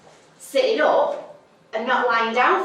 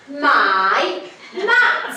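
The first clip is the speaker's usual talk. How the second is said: "my mat" pressed hard, both words stressed; emphasis on my mat; 3 semitones higher, 3 dB louder than usual. Retold or imitated. Reclaiming her mat from the hippie, stressed "my mat". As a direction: lean on "my mat".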